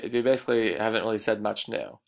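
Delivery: "basically" given a little extra weight; stress on basically. Shown as a demonstration. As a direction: lean on the word "basically". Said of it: "I'm sort of emphasizing the word basically".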